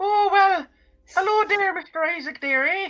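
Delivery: shrill, very high, slow put-on voice. Asked to hear the voice, a speaker greets mister isaac: shrill impression. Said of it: "I don't sound that shrill".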